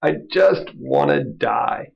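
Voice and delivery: drawn-out mock despair. Elijah wallowing in self-pity before God, in a slow hammed-up wail. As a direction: stretch it out like a hopeless sulk.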